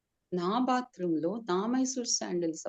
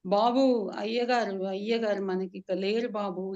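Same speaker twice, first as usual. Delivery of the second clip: louder tearful announcement, then fading; crying; 3 dB louder than usual. Acted. Servant tells the son the master is gone, crying. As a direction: sob out the news. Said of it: "ఏడుస్తున్నాడు నరసయ్య".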